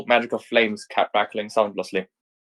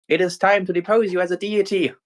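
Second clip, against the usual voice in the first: raised, firm heroine vow; determined heroine; 8 semitones higher than usual. Acted. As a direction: square up for the fight. Nero readies her bat.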